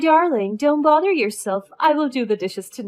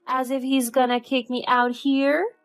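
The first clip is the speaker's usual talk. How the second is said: high, louder baby-talk mockery; mocking babyish tone; 6 semitones higher, 7 dB louder than usual. A narrator's reading. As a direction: taunt her like a whiny child. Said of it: "She talks in a mocking and babyish tone".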